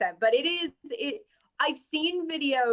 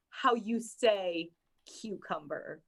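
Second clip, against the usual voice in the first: halting word-search; 2 semitones lower, 3 dB quieter, slower than usual. Retold or imitated. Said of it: "did utter the words".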